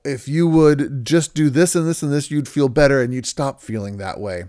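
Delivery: lightly acted spouse jumping to a solution; mock fixer spouse. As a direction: lay out the fix like it's obvious. Spouse lecturing a fix.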